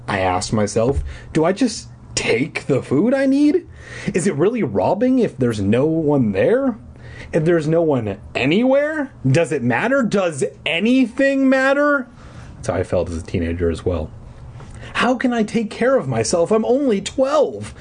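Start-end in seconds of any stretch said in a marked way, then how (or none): 1.3-12.1 put-on higher, pleading kid asking himself; despairing questions. A narrator's reading. Boy asks himself if anything matters, rising despair. 14.9-17.7 shouted. A narrator's reading. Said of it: "I shouted".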